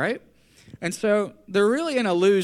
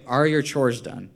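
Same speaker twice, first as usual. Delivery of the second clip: slow, measured parental question; a hint of the parent laying down the law; authoritative parent; 3 semitones lower than usual. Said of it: "I'm the dominant, authoritative parent".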